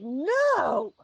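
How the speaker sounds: high, loud acted cry of refusal; screaming. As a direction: shriek a drawn-out refusal at the guards. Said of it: "like, screaming at them".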